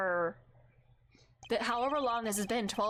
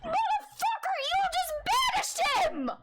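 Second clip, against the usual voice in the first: screaming outrage, much higher and louder; furious shout; 5 dB louder than usual. Real, not acted. Yelling at the villain on screen, furious scream. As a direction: blast the insult at the screen in fury.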